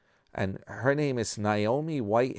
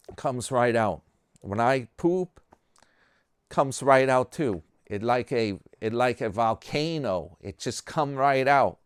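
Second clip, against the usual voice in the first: a higher, louder bragging old man, lightly voiced; boastful old guy; 3 semitones higher, 3 dB louder than usual. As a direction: brag like a cocky old geezer who has no problems. Joke's third old guy boasting.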